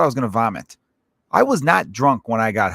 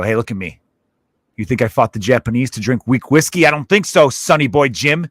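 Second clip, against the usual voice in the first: lightly voiced tough veteran, building louder; old tough guy; 5 dB louder than usual. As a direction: work up into a mild old-timer's indignation. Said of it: "That's why old tough guys".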